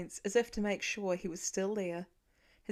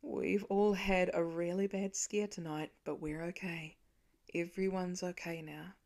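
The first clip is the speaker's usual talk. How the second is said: soothing; 3 semitones lower, 3 dB quieter than usual. Acted. Father soothing child.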